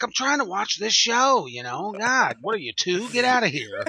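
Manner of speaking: half-laughing, put-upon grumble; mock exasperation. Retelling scolding a noisy two-year-old.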